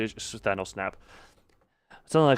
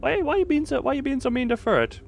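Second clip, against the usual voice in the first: mock hurt; 12 semitones higher, faster than usual. Playful scolding of a chatter.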